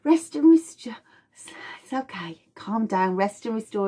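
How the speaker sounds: hushed, settling voice; soothing calm-down. Pretend. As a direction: talk the body down gently. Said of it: "And sympathetic goes".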